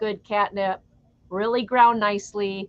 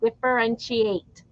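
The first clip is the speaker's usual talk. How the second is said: Wisconsin accent; 3 dB quieter, slower than usual. Real, not acted. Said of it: "I'm saying it with a Wisconsin accent".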